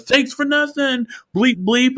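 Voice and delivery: high, slow mock sarcasm; sarcastic driver. Driver passing by mocks the seller, slow high sarcasm. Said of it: "he goes".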